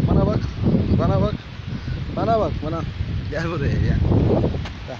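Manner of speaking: loud, high coaxing voice for animals; high excited pet talk. Acted. Talking to street cats, loud high excited coaxing. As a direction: call them in eagerly, loud and high.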